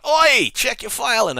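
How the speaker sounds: loud, high-pitched call to a colleague; mock shout. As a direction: shout it across the room, playfully acted. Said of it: "you can just shout".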